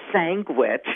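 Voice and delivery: "sandwich" said as SANG-wich; regional pronunciation. Shown as a demonstration. Showing the host another regional way, "sandwich" as sangwich. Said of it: "the word sandwich differently".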